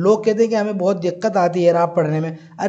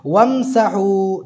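वमसहू drawn out syllable by syllable; very slow demo; much slower than usual. Shown as a demonstration. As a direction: stretch वमसहू out slowly. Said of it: "देखो, वमसहू".

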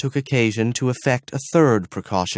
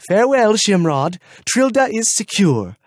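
high, loud strange guard voice; high proud farewell; 10 semitones higher, 5 dB louder than usual. Acted. Gruffanet calling farewell.

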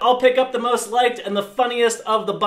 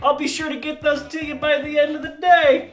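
fake-friendly coworker; 5 semitones higher than usual.

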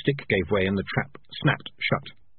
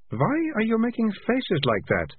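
put-on sharp, higher girl's question; a demanding young girl; bossy girl voice; 12 semitones higher than usual. A narrator's reading. Malicia questions Morris.

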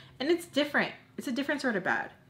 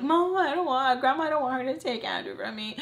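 high-pitched pleading wail, re-enacted; imitated crying plea; 6 semitones higher than usual. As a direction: beg grandma in a mock tearful whine. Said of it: "I'd be crying".

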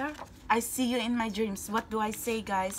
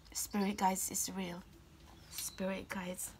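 whispering; 3 semitones lower, 9 dB quieter than usual. Real, not acted. Whispered devotion.

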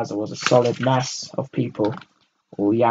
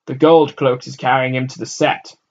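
put-on boy; 3 semitones higher, 9 dB louder than usual. A narrator's reading. Boy answers while running.

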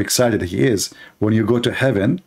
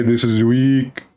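mock Muslim commenter; much slower than usual. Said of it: "They will say".

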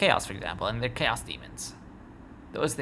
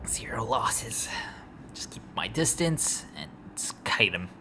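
whispering. Real, not acted. Whispering tactics during battle.

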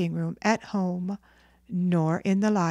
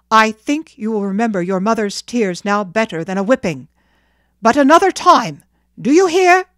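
loud, brisk scolding, building to a shout; angry father demanding to be heard; stern warning; 2 semitones higher, 10 dB louder, faster than usual. Acted. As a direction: threaten the child, rising in pitch at the end. Father warns of a whipping.

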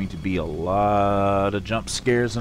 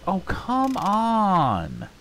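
exasperated yell; 8 semitones higher, much slower than usual. Real, not acted. Jumped by animatronic.

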